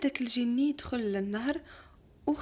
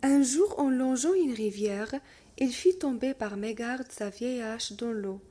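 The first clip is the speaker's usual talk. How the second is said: lecture de conte; 3 dB louder, much slower than usual. Acted. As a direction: lecture lente et posée d'un conte. Reading the tale aloud. (maître qui lit un conte lentement à sa classe)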